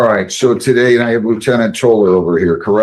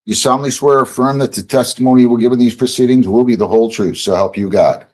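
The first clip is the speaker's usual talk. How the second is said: fast memorized oath recital; rote court oath; faster than usual. Real, not acted. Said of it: "judge reads oath".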